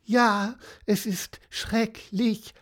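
high, slow mock lament; wailing. A narrator's reading. Horse bemoaning its fate to Pieper, lightly wailed. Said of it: "jammerte Cassiopeia weiter".

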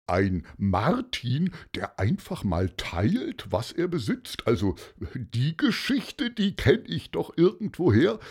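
lightly put-on, pondering character voice; Paulus's musing voice. Paulus recalling the Saint Martin story, lightly voiced and musing. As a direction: muse as a memory dawns.

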